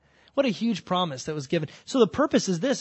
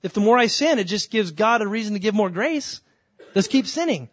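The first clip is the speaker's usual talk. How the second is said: higher, eager voice of a careless sinner; raised, mocking voice of someone abusing grace; mock reckless sinner; 4 semitones higher, 4 dB louder than usual. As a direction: play the fool who wants to keep sinning. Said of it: "that's what Paul made that argument".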